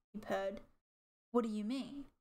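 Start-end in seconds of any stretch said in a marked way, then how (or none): 1.3-2.1 a touch sharper, rising question; lightly sharp demand; repeated sharply. A narrator's reading. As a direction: press the question, mildly curt. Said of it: "Leafstar repeated sharply".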